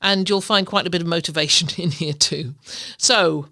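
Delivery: measured, scripted host introduction; podcast intro read. Real, not acted. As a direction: read the episode introduction to listeners.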